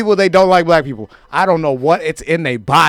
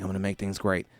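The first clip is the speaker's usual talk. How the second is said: Trump impression; 10 semitones lower, 15 dB quieter than usual. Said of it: "He's like".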